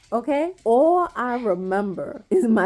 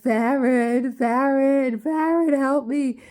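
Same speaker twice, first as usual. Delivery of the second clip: calling out; 5 semitones higher, slower than usual. Retold or imitated. Calling daughter for help.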